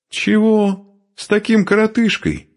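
"коротышкой" thrown out very high; high, indignant question on "коротышкой"; scornful disbelief. Acted. Woman rejecting the short man, scornful on "коротышкой".

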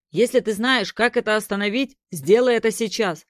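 captain demanding action in battle; urgent command. Acted. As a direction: push him to act now. Captain urges hero to act.

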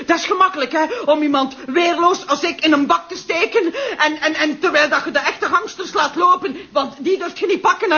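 laughing, shouting accusation; drunken rant. Acted. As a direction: rail at him, half laughing, half furious. Drunk prisoner rails at commissioner.

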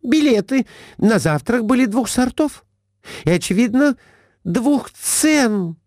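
high, reproachful wife; Глафира, high. A narrator's reading. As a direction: scold him up high. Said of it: "сказала Глафира Семёновна мужу". (высокий упрёк жены мужу)

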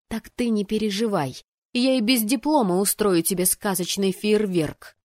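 spirited, emphatic taunt; taunting promise. Acted. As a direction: promise him trouble with gusto. Heroine taunts him with a promise.

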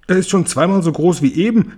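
höher und lauter geschrien; Schrei. A narrator's reading. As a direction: schreit vor Staunen. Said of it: "schrie Tante Zinke". (lauter, hoher Schrei)

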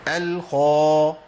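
الخا said with a smile, thin and drawn out; wrong smiling kha. Shown as a demonstration. Teacher showing the mistake, thinned kha. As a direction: demonstrate the thinned الخا to avoid. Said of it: "ما أقولش الخا".

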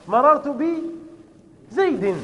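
مررت بزيد stretched very slowly; drawn-out example. Shown as a demonstration. Teacher to pupils, dictating the sentence very slowly. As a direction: spell the example out slowly for the class. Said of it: "teacher drawing out example sentence".

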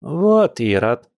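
high, drawn-out scolding; indignant granny. Acted. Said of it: "возмутилась бабуля".

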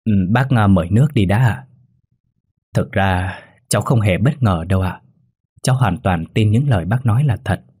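hesitant start with filler pauses; halting, then gently assured. A narrator's reading. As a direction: feel your way into the reply. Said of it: "rồi ngập ngừng bảo".

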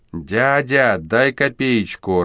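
put-on high, slow, pleading little street kid; plaintive child's "Дядя, дай копеечку"; thin child's voice. A narrator's reading. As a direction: beg like a small child. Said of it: "тонкий детский голос".

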